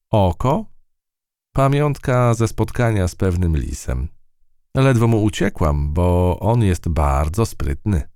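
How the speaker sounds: plucky field mouse telling her tale. Acted. Field mouse character speaks.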